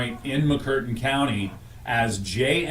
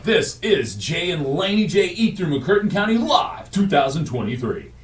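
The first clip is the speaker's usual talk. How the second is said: higher, announcer-style show opening; TV host intro; 5 semitones higher than usual. Pretend. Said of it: "get out of the Mustang and be like".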